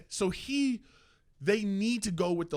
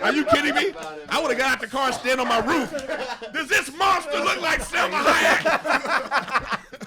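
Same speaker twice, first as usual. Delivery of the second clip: high, incredulous comic rant; hammed-up disbelief, pitched well up; mock outrage; 6 semitones higher, slower than usual. Comic acted outrage to the crowd.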